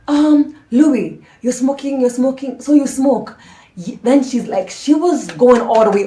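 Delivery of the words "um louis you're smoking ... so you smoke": a hint of a scolding mom, higher; mock the stern mother catching her son; imitating his mom. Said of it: "his mom goes like".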